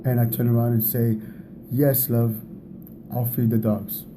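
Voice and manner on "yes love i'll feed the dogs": loving answer. Shown as a demonstration. Husband agreeing to feed the dogs for his wife, warmly. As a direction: say it kindly, meaning it. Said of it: "I'm gonna say this right".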